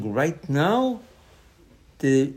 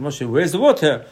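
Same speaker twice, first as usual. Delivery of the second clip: louder acted complaint; mock screaming; 6 dB louder than usual. The people criticize Moshe over water, mock screaming. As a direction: call out an accusing demand, short of a real scream. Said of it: "started screaming".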